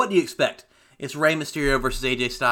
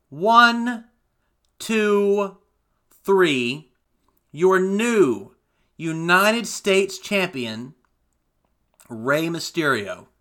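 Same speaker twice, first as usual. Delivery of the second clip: ring announcer call; 2 semitones higher, much slower than usual. Retold or imitated. Referee count and announcement.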